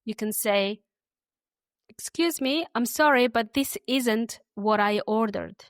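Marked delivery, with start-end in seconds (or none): 1.9-5.6 slow and clear, for learners to copy; said slowly. Shown as a demonstration. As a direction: say it slowly so they can repeat. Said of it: "I'll say them slowly".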